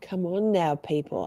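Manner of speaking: stuffy nasal voice; nasally voice. Real, not acted. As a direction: talk through a blocked nose. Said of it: "Sorry about my nasally voice".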